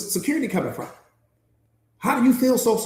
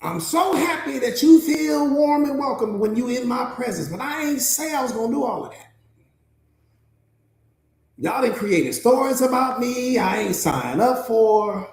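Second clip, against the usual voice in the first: protesting dog. Acted. Dog gently letting down its trusting owners, mildly protesting. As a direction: politely push back as the reluctant guard dog. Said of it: "The dog is like".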